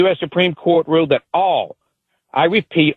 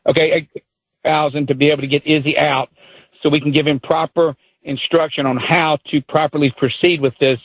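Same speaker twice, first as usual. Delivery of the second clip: lower, steadier, measured delivery; calmed down, slower; 3 semitones lower than usual. Real, not acted. Caller slowing down after the host asked him to, calm and lower. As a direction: rein it in and speak with care. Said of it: "I have to calm down and be slow now".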